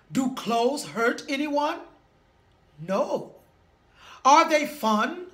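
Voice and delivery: lightly voiced wise old king; regal proclamation. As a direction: proclaim it with gentle gravity.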